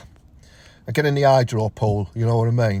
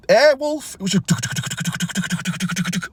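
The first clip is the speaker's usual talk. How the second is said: high, slow awed exclamation; mock awe; 7 semitones higher, much slower than usual. Lad marvels at old man's stream, high slow mock awe.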